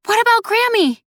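very high, loud desperate cry; panicked rush. A narrator's reading. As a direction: demand it in high-pitched alarm. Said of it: "Nettie rushed".

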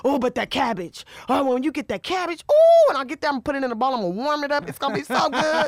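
high, giddy, tipsy delight with a squealed oh; a happy drunk gushing over cabbage, laughing; giddy drunk craving. Retold or imitated. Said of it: "I'm like a happy drunk".

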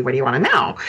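imitating a sulky kid, low and dismissive; snarky teen. Mother imitating her son's middle-school reply, snarky. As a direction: toss it off like a bored middle-schooler. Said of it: "it was more the snarky".

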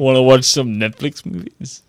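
lightly voiced chummy tech CEO; casual host inviting friends over; Reed Hastings voice. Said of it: "Is that how he talks?".

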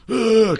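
high-pitched groan of "ugh"; retold exasperated groan. Retelling the phone nagging, exasperated groan. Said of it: "And I'm like".

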